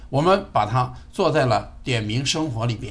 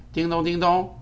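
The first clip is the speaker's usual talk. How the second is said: calling wake word; 4 semitones higher than usual. Real, not acted. Wake word called to speaker.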